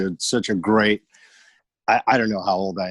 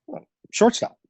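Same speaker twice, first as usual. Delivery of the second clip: put-on much higher boyish voice answering; young me; 14 semitones higher, slower than usual. Ten-year-old answering his dad's quiz, high kid voice. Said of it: "ten, eleven years old".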